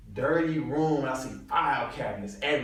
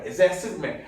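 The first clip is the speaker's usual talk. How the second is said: mock yell; 6 semitones higher than usual. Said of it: "Just, just point and yell".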